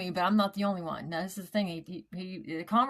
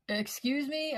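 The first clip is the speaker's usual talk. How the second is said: startled excuse me; 7 semitones higher, slower than usual. Retold or imitated. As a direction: pitch leaps up in retold surprise. Hears the stone is not a stone.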